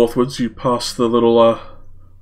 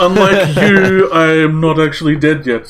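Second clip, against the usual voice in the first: snarky retort; 5 semitones higher, 3 dB louder than usual. Acted. Ada retorts to the tree.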